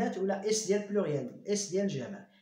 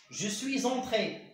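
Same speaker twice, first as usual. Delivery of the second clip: slow dictation; much slower than usual. Shown as a demonstration. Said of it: "كندير أو أكسون".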